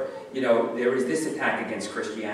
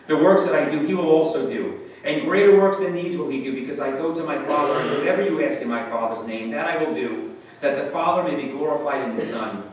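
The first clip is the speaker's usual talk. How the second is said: louder, solemn reading of the verses; scripture reading; 4 dB louder than usual. Acted. Preacher reading John aloud to his flock, solemn. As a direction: proclaim the verses to the congregation.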